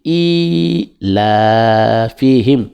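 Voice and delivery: "i" stretched, slowly, then "la, fi, him"; long i. Shown as a demonstration. Teacher showing the elongated i in recitation, drawn out. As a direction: hold the "i" a little longer. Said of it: "On tire un peu".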